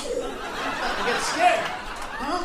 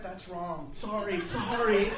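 cringe and apologize fast; a hint of fearful white guilt; mock apology; 6 semitones lower, slower than usual. White people's apology mocked.

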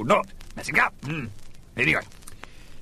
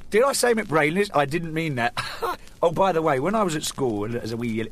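ordinary delivery

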